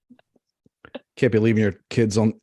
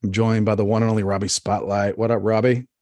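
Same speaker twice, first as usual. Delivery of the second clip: podcast host intro. Acted. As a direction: welcome the listeners like a host. Host introduces himself and guest.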